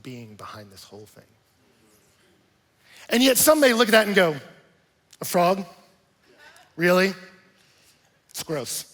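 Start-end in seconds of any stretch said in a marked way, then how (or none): 5.2-8.9 disgusted fish. Pretend. Picky fish voiced in disgust.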